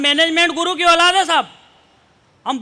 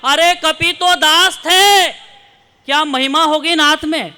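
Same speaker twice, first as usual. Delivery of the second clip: slow, louder emphatic verse; slow poetic declamation; 4 dB louder, slower than usual. Acted. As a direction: stretch each word for the crowd. Declaims refrain of poem.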